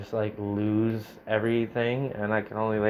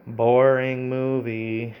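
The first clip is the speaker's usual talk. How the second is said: slow, deadpan boredom; 3 dB louder, much slower than usual. Real, not acted. Streamer tired of the looping movie, slow and deadpan. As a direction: drag it out, unimpressed.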